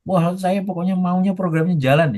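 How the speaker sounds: high, insistent boss voice; demanding boss. Retold or imitated. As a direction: push it like a stubborn boss.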